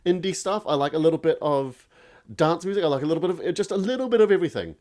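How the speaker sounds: high, breezy imitation of his shrugging past self; vague music fan. Guest imitates himself answering music questions, high and breezy. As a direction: airily list every genre without committing. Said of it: "I'd just be like".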